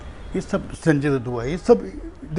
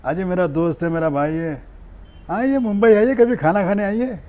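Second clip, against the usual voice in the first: lightly voiced Akshay Kumar charming a friend's girlfriend; 2 semitones higher than usual. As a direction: play the film star inviting her over. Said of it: "Akshay Kumar बन के बात करना पड़ता है".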